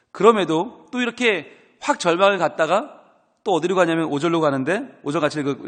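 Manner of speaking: normal talking voice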